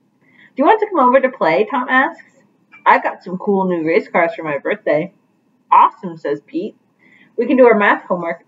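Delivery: lively picture-book read-aloud with voiced characters; reading to children. Teacher reading Pete the Cat to her class, animated storytelling.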